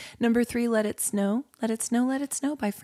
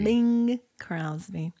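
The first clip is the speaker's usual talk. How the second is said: whisper; much slower than usual. Acted. Reverent whispered name.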